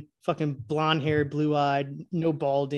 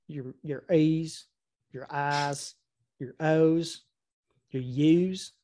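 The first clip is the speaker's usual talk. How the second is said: Southern accent. Shown as a demonstration. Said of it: "You can't really talk like this too long".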